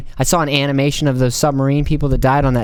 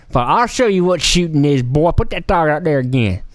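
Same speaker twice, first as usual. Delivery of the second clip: cowboy voice. Acted. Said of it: "I don't know why I make 'em all sound like that".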